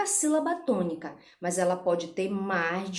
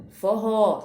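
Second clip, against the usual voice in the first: Forró with a strong, louder final ró; stress on RÓ; 5 dB louder than usual. Shown as a demonstration. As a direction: punch the last syllable of Forró. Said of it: "também última sílaba". (Forró com força no ró final)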